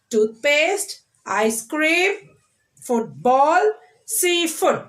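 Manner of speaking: careful model list of Toothpaste, ice cream, football, seafood; first-syllable stress. Shown as a demonstration. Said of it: "stressing the first syllable nouns".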